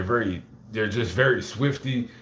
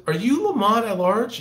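put-on girl fan; 11 semitones higher, 4 dB louder than usual. Girl at the Fresno cemetery stops him, high imitated girl voice. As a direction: put on a polite young woman's voice, pitched up. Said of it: "She goes".

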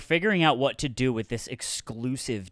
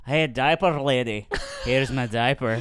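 imitating Goldmember's accent, slowed down; 3 semitones lower, slower than usual. Quoting a film character to friends, imitated Goldmember accent. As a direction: do a film villain's silly accent. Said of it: "Accents are funny".

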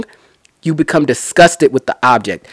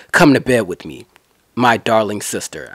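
sly seducer; 5 semitones lower, 4 dB quieter than usual. Retold or imitated. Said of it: "that's the way I'ma pretend".

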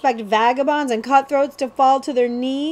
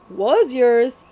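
short, sharp retort; yapping; 3 semitones higher, 4 dB louder than usual. Acted. Cutwater yaps at the prince that it was his. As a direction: snap back at the boy. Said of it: "yapped Cutwater".

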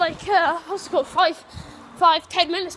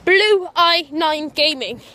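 slow repetition; 2 semitones lower, 4 dB louder, slower than usual. Real, not acted. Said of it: "repeats the name".

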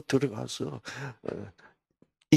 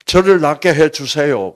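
loud, high cry to be healed; loud demand; 5 semitones higher, 13 dB louder than usual. Acted. Patient demanding healing from Jesus, loud insistent cry. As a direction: belt out the request, pitched up. Contrast with humble plea, blunt demand.

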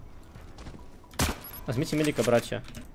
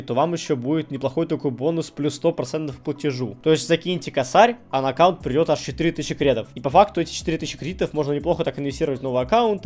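рекламная вставка; 3 dB louder than usual. Acted. Реклама промо в начале видео.

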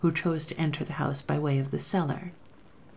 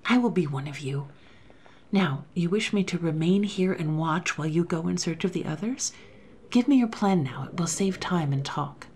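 quick resolve. Acted. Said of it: "rejoined instantly".

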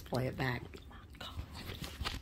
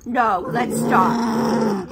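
slow, firm command; much slower than usual. Real, not acted. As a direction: lay down the law slowly. Telling the girls to stop.

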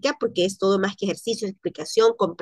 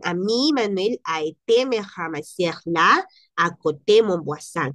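francés rápido ligado; 3 semitones lower than usual. Shown as a demonstration. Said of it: "Quiere decir".

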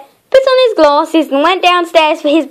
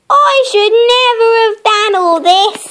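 sad; 8 semitones higher than usual. Acted. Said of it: "said Mister Surprise sadly".

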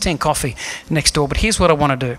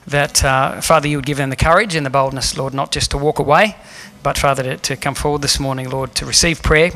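closing prayer. Acted. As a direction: pray over the congregation with fervour. Pastor leads closing prayer.

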